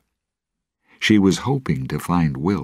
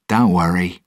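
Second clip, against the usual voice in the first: forced cheer; 4 semitones higher, 5 dB louder than usual. Acted. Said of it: "He tried to speak happily".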